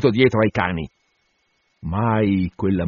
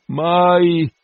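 gemito; 8 semitones higher, 4 dB louder than usual. A narrator's reading. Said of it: "gemeva l'assistente".

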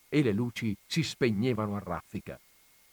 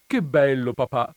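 put-on loud, delighted little boy; a kid cheering at his dad; excited child; 6 dB louder than usual. A narrator's reading.

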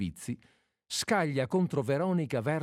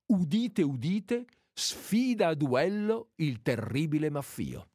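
town crier; 3 semitones higher than usual. Acted. Calls out a proclamation.

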